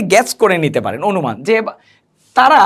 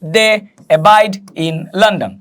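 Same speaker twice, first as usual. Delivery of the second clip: slow model reading; much slower than usual. Shown as a demonstration. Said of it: "তারা এখানে লিখেছে".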